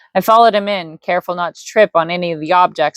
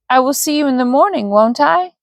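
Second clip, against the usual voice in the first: wrong voice; 7 semitones higher than usual. Acted. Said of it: "Wrong voice".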